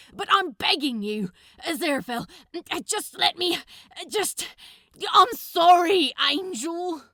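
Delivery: begging at the top of his lungs; desperate shouting. A narrator's reading. Crowley pounding on the door, shouting and begging his angel. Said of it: "His voice was hoarse from the cold and the shouting".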